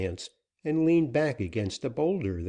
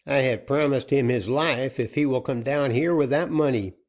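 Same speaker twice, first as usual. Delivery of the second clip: outlaw captain; 5 semitones higher, 5 dB louder than usual. Acted. Captain explaining.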